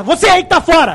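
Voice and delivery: loud TV host call-out; Datena impression. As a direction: bark it like a TV anchor. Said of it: "como se fosse o Datena".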